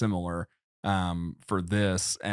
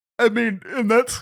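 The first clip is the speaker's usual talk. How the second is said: speaking through a yawn, much higher; 14 semitones higher, 5 dB louder than usual. Discussing a movie teaser, yawning while talking. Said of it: "sorry, I'm yawning".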